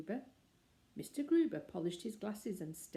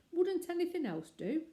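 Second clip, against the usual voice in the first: anxious; 11 semitones higher, 5 dB louder than usual. A narrator's reading. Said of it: "asked Missus Brown anxiously".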